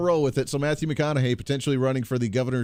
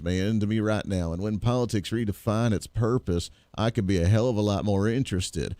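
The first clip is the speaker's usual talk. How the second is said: Matthew McConaughey impression; 5 semitones lower than usual. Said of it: "in the best Matthew McConaughey voice that I have".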